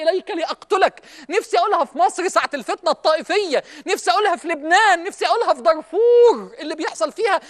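impassioned cry. Real, not acted. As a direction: plead as if crying out to whole countries. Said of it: "أنا بصرخ بأعلى صوتي".

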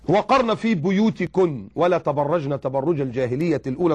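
slow measured Quranic recitation. Acted. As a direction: intone the verse slowly and reverently.

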